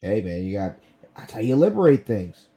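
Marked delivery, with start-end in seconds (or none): 1.2-2.5 louder, higher mock-patriotic line; sarcastic cheer; sarcastic quip. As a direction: jab with fake pride. Sarcastic quip about war.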